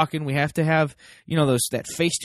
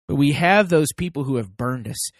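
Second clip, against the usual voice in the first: ordinary talk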